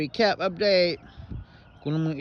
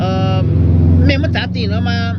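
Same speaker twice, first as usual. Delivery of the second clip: loud exclamation; 2 semitones higher, 9 dB louder than usual. Real, not acted. Exclaiming about wasted money.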